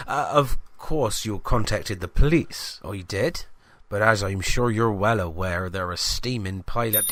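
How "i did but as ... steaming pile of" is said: a hint of the chatty shopkeeper; lightly voiced greengrocer. Greengrocer grumbling to the reporter about police, lightly voiced. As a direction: gossip about the useless police.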